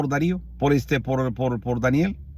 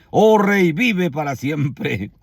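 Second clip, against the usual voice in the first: raised call, then a drawn-out ending; slower than usual. Acted. Daniel answers the king aloud.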